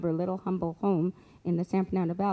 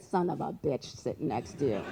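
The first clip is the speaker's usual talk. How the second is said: low, softer, breaking into laughter; amused quote; 5 semitones lower, 5 dB quieter than usual. Real, not acted. Storyteller quotes the psychic's swearing to listeners, tickled and laughing. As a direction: let a laugh take over the line.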